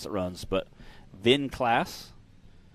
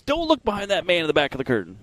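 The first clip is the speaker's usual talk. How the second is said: higher, mock-booming film quote; Wizard of Oz quote; 6 semitones higher, 4 dB louder than usual. Host quotes the film about a man behind curtain, theatrically higher. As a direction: proclaim it like the hidden wizard. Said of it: "It's like Wizard of Oz".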